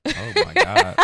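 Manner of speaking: sudden high, loud oh my God; a high, loud cry of shock; shocked exclaim. Real, not acted. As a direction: gasp it out in disbelief. Reaction to "be still.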